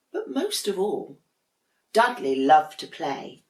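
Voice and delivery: put-on lively read-aloud voice for children; storybook narration. A narrator's reading. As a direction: read it like story time for a class. Teacher reads picture book aloud.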